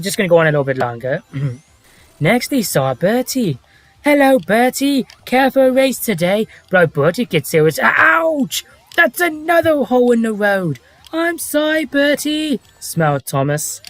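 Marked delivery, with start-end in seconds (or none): 2.2-13.8 Michael Angelis. Shown as a demonstration. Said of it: "Let's hear your Michael Angelis impression".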